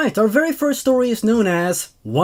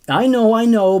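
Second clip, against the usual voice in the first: higher, louder insistence; pleading teacher; 3 semitones higher, 5 dB louder than usual. Acted. Vicky answering the groaning teachers, raised and pleading. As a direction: cut off their groans.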